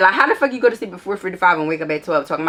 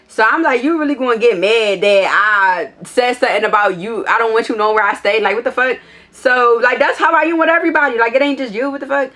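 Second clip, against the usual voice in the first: indignant rant; 5 semitones higher, 4 dB louder than usual. Real, not acted. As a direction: voice pitched up and louder, exasperated. Ranting about his text, indignant.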